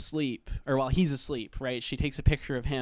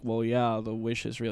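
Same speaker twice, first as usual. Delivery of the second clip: lightly imitated bored helpline guy; slightly low, offhand stoned reply; 4 semitones lower than usual. Helpline guy answering Bear about the wish, mock bored. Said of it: "the guy sounds bored and".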